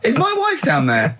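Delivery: high, tearful mock husband; husband calling down for his wife, mock tearful and high; mock upset husband. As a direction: whimper it like a hammed-up frantic husband. Plays the worried husband.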